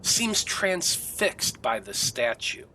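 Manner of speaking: dramatic scene setting with long suspenseful pauses; game master's narration. A narrator's reading. Game master describes Irina's agony to players, suspenseful narration. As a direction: draw out the eerie scene, phrase by phrase.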